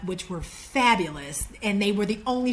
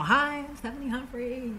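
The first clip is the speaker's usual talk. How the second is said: higher, softened self-introduction; chirpy greeting; 5 semitones higher, 4 dB quieter than usual. Retold or imitated. Applicant greeting the executive at the meeting, chirpy. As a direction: greet him in a lifted voice.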